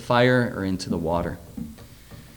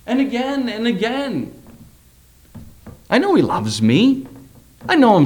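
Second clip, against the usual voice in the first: fervent preaching; 12 semitones higher, 3 dB louder than usual. Real, not acted. Preacher's fervent self-confession.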